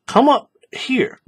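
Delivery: "Come up here" whispered, slow; correcting whisper. Shown as a demonstration. Pointing a student to the right slot, slow whisper. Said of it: "don't come up here".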